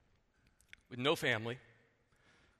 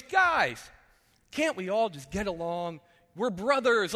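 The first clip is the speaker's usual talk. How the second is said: calling out; slower than usual. Retold or imitated. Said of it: "And he goes".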